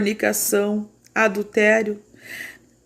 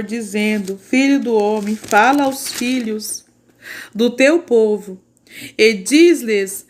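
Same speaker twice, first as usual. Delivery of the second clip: slow, emphatic Bible reading with heavy stresses; measured, declamatory reading to a congregation; solemn scripture reading; 4 dB louder, slower than usual. A narrator's reading. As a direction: proclaim the scripture slowly, punching key words. Reads scripture aloud to church.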